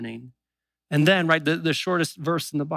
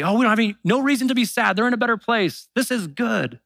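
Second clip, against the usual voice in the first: higher, sing-song comforting cliché; mock cheerful platitude; 6 semitones higher than usual. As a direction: parody glib funeral comfort. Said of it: "I've heard Christians say".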